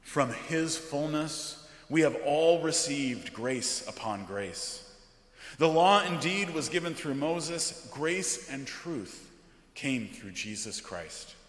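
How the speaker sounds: measured, weighty liturgical reading; solemn scripture reading. Acted. Pastor reading John's prologue from the pulpit, solemn.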